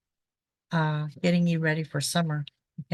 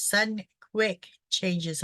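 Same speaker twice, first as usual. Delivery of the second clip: slow down and hit "quick"; "quick" given slow, deliberate weight; stress on quick; slower than usual. Shown as a demonstration. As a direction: lean on "quick" in "sudden, quick changes", slowly. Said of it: "I really want to emphasize the word quick".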